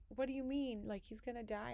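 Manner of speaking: put-on high, alarmed child-like asking; kids' shocked question. Kids told the cat will die, asking in shocked high voices. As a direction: voice the kids' stunned disbelief.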